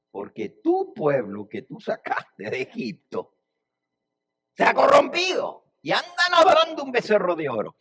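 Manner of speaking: high, loud outburst of divine indignation; angry God. Acted. God denouncing the people to Moses, angry. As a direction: build from stressed TÚ to a high, loud cry.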